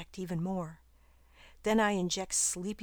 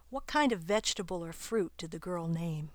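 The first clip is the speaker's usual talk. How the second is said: hushed question to the listener; whispered aside. Real, not acted.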